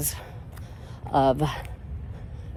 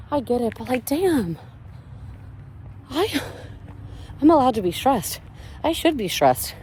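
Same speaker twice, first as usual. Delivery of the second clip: exasperated venting; 8 semitones higher than usual. Real, not acted. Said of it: "venting her stress".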